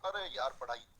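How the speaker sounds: groggy student. Retold or imitated. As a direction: sigh it out like a student just woken. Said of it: "एक जागता है ऐसे". (नींद में अलसाया छात्र, धीमी भारी आवाज़)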